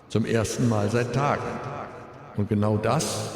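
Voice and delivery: grieving father's eulogy, composed; at a graveside. Real, not acted. Eulogy for son at funeral.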